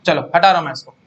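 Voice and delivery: ordinary talk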